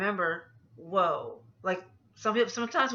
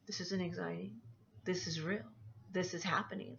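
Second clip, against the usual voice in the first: doubting inner voice; 10 dB quieter than usual. Retold or imitated. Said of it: "that little voice in the back of your head".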